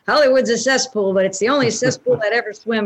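hard-boiled detective narration; noir voice. Shown as a demonstration. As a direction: tough film noir narrator. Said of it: "putting on my noir voice".

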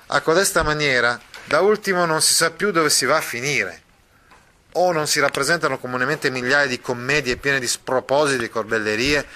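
Mastro Pietro replying. Acted. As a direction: brush off the fuss. (Mastro Pietro che minimizza, voce più alta)

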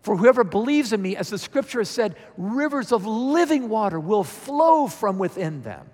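high, loud, slow proclamation. Acted. Jesus calling to thirsty people at the festival, yelling. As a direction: cry it out slowly to a whole crowd. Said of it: "Jesus said in a loud voice".

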